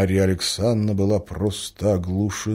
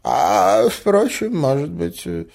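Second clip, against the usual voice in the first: flustered; 7 semitones higher, 4 dB louder, slower than usual. A narrator's reading. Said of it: "отвечал растерявшийся князь".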